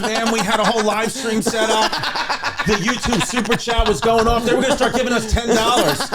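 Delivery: high-pitched mock grieving whine; mock crying. Funeral mourner bemoaning a lost livestream, mock crying. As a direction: lament it like a hammed-up mourner. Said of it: "just crying about the clips".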